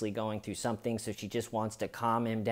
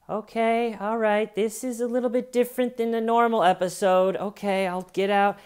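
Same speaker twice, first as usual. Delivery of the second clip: high, hurried, nervously reasoning mother; mom's inner voice; 10 semitones higher, 6 dB louder than usual. Retold or imitated. Mother soothing herself as son screams, high and quick. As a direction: talk herself calm, pitched up. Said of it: "the mom is thinking".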